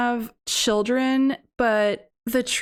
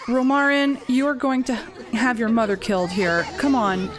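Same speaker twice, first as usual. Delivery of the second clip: urging; faster than usual. Real, not acted. Urging Sim to plead.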